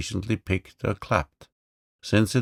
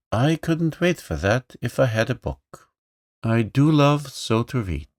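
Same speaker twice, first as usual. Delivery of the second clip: put-on higher, eager boy; boy's voice; 5 semitones higher, 4 dB louder than usual. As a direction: gush like a book-loving boy. Johnny delighted.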